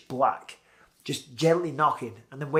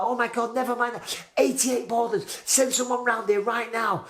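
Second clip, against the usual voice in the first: high, urgent frantic reply; frantic caller giving his address; panicked; 9 semitones higher than usual. Retold or imitated. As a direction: blurt the address, desperate. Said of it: "I'm like".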